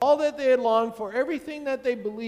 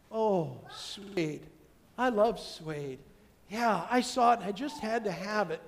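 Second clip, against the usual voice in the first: soft, pleased couch buyer; mild happy customer voice; delighted shopper; 3 dB quieter than usual. Retold or imitated. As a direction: coo over the new couch. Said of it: "They're saying the same words, ... two different things".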